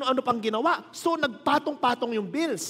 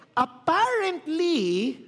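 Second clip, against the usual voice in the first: stretched slow with a rising end; a slow, teasing apparently; drawn-out apparently; 6 semitones higher, much slower than usual. Acted. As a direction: dangle the word to tease the crowd. Teasing build-up to twist.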